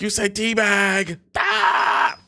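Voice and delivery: high slow teasing imitation ending in a squeal; mocking friend's laugh. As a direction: mimic a giggling friend, then shriek.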